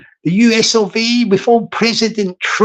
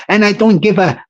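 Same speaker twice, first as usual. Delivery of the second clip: put-on French accent. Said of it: "I am President Macron".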